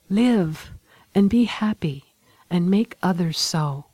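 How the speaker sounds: a touch of held-back tears, gently voiced; mild suppressed sorrow in a farewell; half-suppressed emotion. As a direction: keep the grief just under the words. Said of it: "in a voice of half-suppressed emotion".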